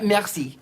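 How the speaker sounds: "merci" with the R made in the throat; throaty French R. Shown as a demonstration. Host showing French sounds, "merci" with throaty R. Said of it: "it's here in the throat".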